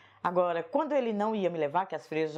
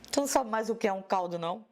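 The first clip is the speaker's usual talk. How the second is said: father's scolding; 3 semitones higher than usual. Retold or imitated. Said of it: "e disse".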